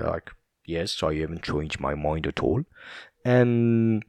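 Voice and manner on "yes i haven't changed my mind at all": mock Scottish accent; Sean Connery. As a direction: imitate a Scot with rounded vowels. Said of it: "so funny how he says that".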